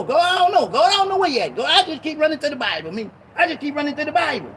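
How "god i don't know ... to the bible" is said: rising, pleading cries of I don't know; anguished cry to God. Acted. Preacher crying out to God, lost. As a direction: call out to God, lost and hurting.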